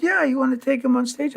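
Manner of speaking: a hint of an eager Italian showman; mock Italian guy. Italian man asks about stage.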